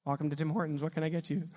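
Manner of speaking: understated, low-key order-taker; lightly voiced worker, subdued and matter-of-fact; drive-through worker. Worker interrupting a weeping phone call, low-key drive-through worker. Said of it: "I'm in a drive-through at Tim Hortons".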